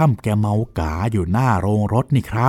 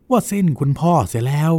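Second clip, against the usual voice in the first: imitating a drunk woman's theatrical wailing, pitched up; mock wailing lament; 4 semitones higher than usual. Servant retells the drunk woman's wailing, mock tearful. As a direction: ham up her tearful complaint like Chinese opera. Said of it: "ร้องไห้ร้องห่ม".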